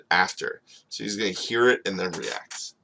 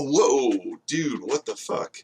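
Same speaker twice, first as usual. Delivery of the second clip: shocked reaction; 4 semitones higher, slower than usual. Acted. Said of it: "it takes a second for him to realize it and go".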